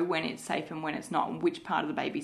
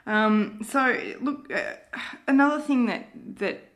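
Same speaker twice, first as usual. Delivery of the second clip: holding back tears while speaking; teary; 3 semitones higher, 4 dB louder than usual. Real, not acted. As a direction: voice high and tight with tears. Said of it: "a bit teary here".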